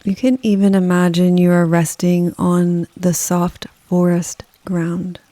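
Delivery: calm, unhurried meditation delivery with long pauses; guided meditation. Acted. Yoga nidra guide leading listeners through a rainforest, calm guided meditation. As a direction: guide the listener gently, leaving space after each phrase. Leads a forest bathing meditation.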